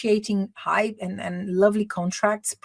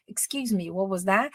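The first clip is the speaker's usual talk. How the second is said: slightly aggressive; 4 dB quieter than usual. Shown as a demonstration. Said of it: "informal e até um pouquinho mais agressivo".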